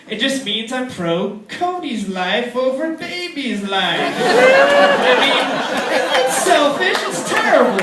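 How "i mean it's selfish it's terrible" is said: high mock-guilty voice; mock self-scolding.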